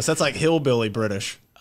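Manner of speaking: normal talking voice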